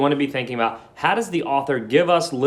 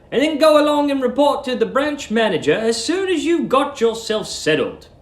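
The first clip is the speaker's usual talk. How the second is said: much higher, louder manager voice; boss's instruction; 13 semitones higher, 3 dB louder than usual. Acted. Mister Greensdale instructs Billy, high and commanding. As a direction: give the order like a busy boss. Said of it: "he had said".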